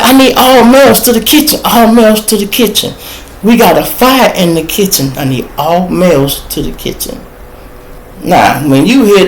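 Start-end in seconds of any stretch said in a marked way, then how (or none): 0.0-7.2 frantic call for help. Retold or imitated. Kitchen lady calling all men to the fire, high urgent shout.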